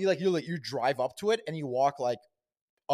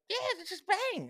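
mock eager. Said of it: "And I'd be like".

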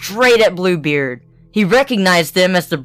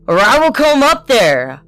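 loud, higher roaring command; 6 semitones higher, 5 dB louder than usual. A narrator's reading. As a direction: roar it at her. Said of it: "roared Bluebeard".

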